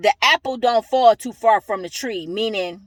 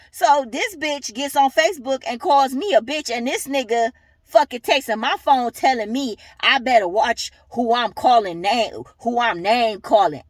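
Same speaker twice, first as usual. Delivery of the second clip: angry rant; 3 semitones higher than usual. Real, not acted. Furious rant at the baby's dad.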